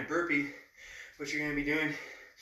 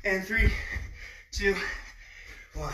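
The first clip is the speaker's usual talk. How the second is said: countdown call; 4 semitones higher than usual. Real, not acted. Coach counts down end of set.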